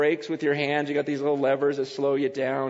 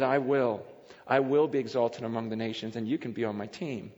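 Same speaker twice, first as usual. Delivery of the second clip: God's promise; 6 semitones lower, 4 dB quieter than usual. Acted. Speaks as God promising.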